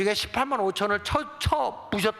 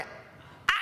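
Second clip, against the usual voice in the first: short pained cry; 7 dB quieter than usual. Acted. Goliath struck by the stone.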